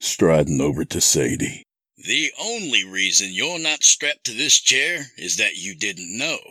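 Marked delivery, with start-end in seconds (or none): 2.0-6.4 menacing captor. Acted. Captor explains why Sam is spared, menacing. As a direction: calmly threaten as the captor. Kidnapper's voice in narrated story.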